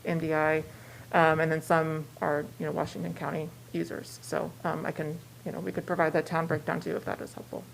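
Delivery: muffled behind a mask; speaking through a mask; through a face mask. Real, not acted. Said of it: "I'm a little muffled with mask".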